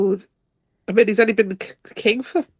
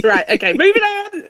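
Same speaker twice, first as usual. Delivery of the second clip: after laughing hard; 10 semitones higher than usual. Real, not acted. Recovering from laughing fit.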